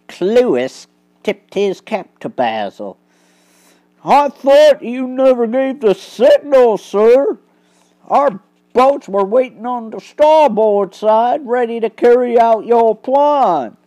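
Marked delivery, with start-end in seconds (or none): 4.0-13.8 higher, louder eager policeman; lightly voiced constable. Constable reporting to Basil, eager and brisk. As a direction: report smartly to the detective.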